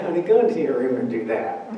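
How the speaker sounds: quick, laughing brush-off; lightly voiced mother shooing her child away; fast, half-laughing dismissal; dismissive mother. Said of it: "And she said".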